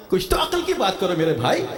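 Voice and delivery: ordinary talk, nothing marked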